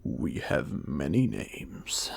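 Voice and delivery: slow, low unvoiced whisper right at the ear; whispered in her ear. A narrator's reading. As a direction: breathe it close into her ear. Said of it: "He spoke directly in her ear".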